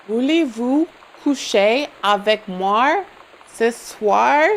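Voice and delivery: slow, showy attempt at a French accent. Shown as a demonstration. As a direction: show off your French accent, drawn out. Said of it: "how accurate my French accent is".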